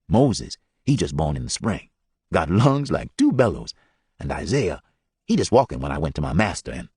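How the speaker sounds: low, lightly voiced old man; Ordy Lee's voice. Ordy Lee showing his family's hair, lightly voiced low. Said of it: "Ordy Lee's voice caught and stopped".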